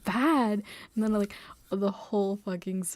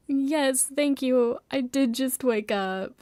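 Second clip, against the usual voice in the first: loud, higher sarcastic reply; sarcastic thanks; 4 semitones higher, 4 dB louder, slower than usual. Retold or imitated. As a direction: fire back sarcastically.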